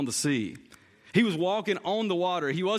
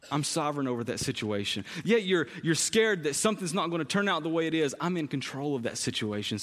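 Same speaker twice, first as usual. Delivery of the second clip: lower, calm voice of assurance; gentle reassurance; 4 semitones lower than usual. Acted. Voicing Jesus reassuring the worried.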